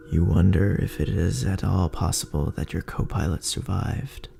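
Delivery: usual speaking voice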